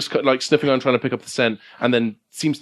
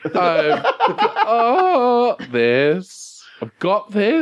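high, stiff, held-out words; robotic attempted confidence; 10 semitones higher, much slower than usual. The speaker tries the Doctor's affirmation, robotically. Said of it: "Larry, are you a robot?".

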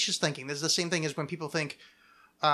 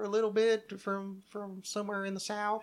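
put-on tentative Southern accent; 5 dB quieter than usual. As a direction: feel your way into a mild Southern twang. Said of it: "kind of Southern there".

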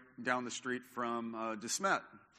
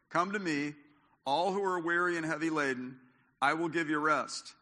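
raised, solemn quote of Jesus; preaching scripture; 3 semitones higher, 3 dB louder than usual. Acted. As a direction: proclaim the promise to the congregation.

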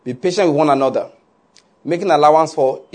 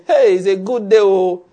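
higher-pitched, hearty "hey" greeting; mock morning greeting; 4 semitones higher, 4 dB louder than usual. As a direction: imitate an over-hearty morning hail. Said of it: "Just say it in another way".

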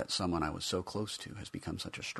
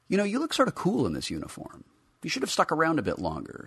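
wistful teasing; 11 semitones higher, 3 dB louder, faster than usual. Acted. Talking to the action figure.

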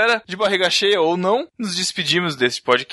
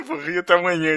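laughing; 2 semitones higher, faster than usual. Real, not acted. Laugh heard while repeating.

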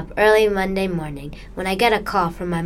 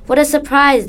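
surprised; 6 semitones higher, 6 dB louder than usual. Acted. Narrator surprised at seeing family.

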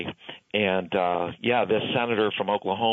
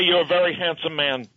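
Bernie impression; 6 semitones higher than usual. Continues Bernie voice.

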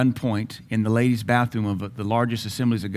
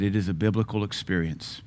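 quiet voice of God; 4 semitones lower, 6 dB quieter than usual. Retold or imitated. God's reply, quiet.

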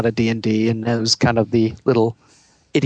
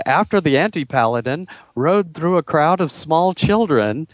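reading the comic aloud; 6 semitones higher than usual. Retold or imitated. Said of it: "And it said".

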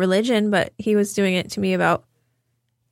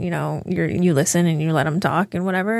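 ordinary talk, nothing marked

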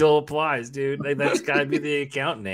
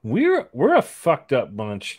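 laughing shout; much slower than usual. Real, not acted.

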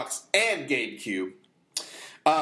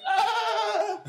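mock gasp; 3 dB louder than usual. Old lady coughing up fry.

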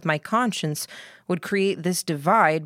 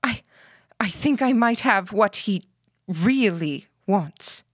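stuttering; 4 semitones higher than usual. Acted. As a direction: stumble over the first words, nervous. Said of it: "She stuttered as she started to speak".

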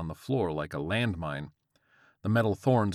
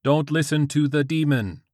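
high, loud phone-assistant warning; crackling Siri voice; 7 semitones higher, 8 dB louder than usual. A narrator's reading. Siri warns George from his pants, loud crackling voice. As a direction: call it out as a commanding Siri. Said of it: "Siri's crackling voice bounded out".

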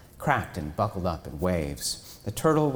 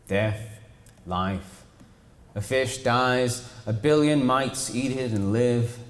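slow giant turtle; 3 semitones higher than usual. Acted. Turtle speaks philosophically slow.

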